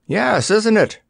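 high, pleased reply; proud. A narrator's reading. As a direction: show it off proudly. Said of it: "replied the dummy proudly".

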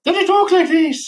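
high, silly Irish-or-Scottish voice; hammed-up Celtic accent with a laugh; mock Irish or Scottish accent. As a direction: squeak out a joke Irish brogue. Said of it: "if he's Scottish or Irish".

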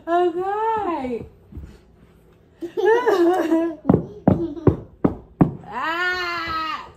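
mock sob breaking into laughter; fake crying. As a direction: pretend to cry, then crack up. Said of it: "that I'm crying".

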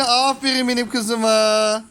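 slow, drawn-out praise. Real, not acted. Parent praising a small girl, slow and doting. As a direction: stretch out the praise for a little one.

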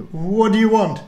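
put-on high, loud scared little girl; frightened girl. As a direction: stammer it out in fright. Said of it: "she said".

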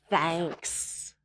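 soft thanks. Acted. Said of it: "And Bear says".

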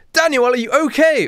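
high, hammed-up worried call. Friends check on Daniel, calling out high. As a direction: call out in mock alarm. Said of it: "all my friends call out".

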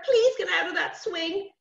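put-on high child's pleading; worried plea. Worried sister begging brother off the swing, pleading. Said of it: "Sarah was getting worried".

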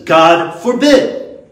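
loud, slow, drawn-out rebuttal; emphatic exclamation. Acted. Preacher voicing Paul's answer to the question, loud and emphatic. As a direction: declare it forcefully, stretching both words.

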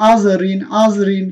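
light, thin r in আজ রিন. Shown as a demonstration. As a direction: recite আজ রিন distinctly, keeping the r light. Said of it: "চিকন করে পড়তে". (আজ রিন-এর র চিকন করে)

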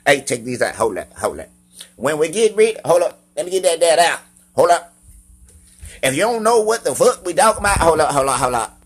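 high, loud country hollering; exaggerated country voice. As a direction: keep hollering in a hammed-up country twang. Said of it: "I can sound as country as I fucking wanna".

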